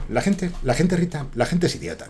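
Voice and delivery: softly voiced film character imitation; film protagonist's tone. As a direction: quote the hero talking to Rita, softly. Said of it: "Dice el tío".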